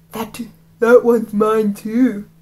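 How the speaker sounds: slow, lightly menacing bully voice; lightly voiced bully. Reader retries the bully's line in an easier voice. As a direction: drawl the claim slowly. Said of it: "that one's better for my voice".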